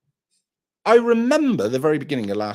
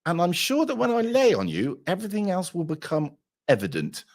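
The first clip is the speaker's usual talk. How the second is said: mock besotted boy; 7 semitones higher than usual. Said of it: "And I looked at her and I went".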